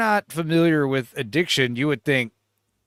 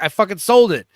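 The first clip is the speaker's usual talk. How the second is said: mock defiant yell; 2 semitones higher, 6 dB louder than usual. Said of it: "He's like".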